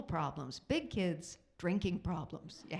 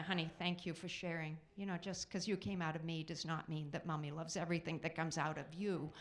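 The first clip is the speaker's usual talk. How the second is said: patient mom; 4 semitones lower than usual. Retold or imitated. Mother calmly answers her gassy son.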